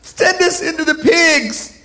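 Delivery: slow, high demon voice; comic acted demon; pleading demon. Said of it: "And the demon's like".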